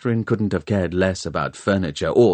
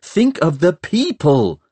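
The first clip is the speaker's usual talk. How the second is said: put-on louder, slow, higher angry girl; indignant plea, louder; angrily; 10 semitones higher, 5 dB louder than usual. A narrator's reading. Catherine scolds the historians, louder and angry. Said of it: "said Catherine angrily".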